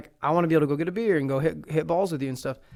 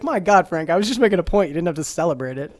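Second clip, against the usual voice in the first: Vince Vaughn impression; 5 dB louder than usual. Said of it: "Vince Vaughn's like".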